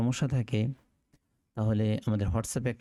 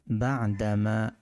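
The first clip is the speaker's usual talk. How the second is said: বাদামা said slowly, each syllable clear; slow demonstration; much slower than usual. Shown as a demonstration. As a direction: stretch বাদামা out for the class. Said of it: "মূল উচ্চারণ". (ধীরে উচ্চারণ করে দেখানো)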